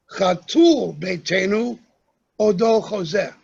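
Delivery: Sephardic Hebrew, emphasis on each last syllable. Shown as a demonstration. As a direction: recite the line in Sephardic pronunciation. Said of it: "In Sephardic Hebrew".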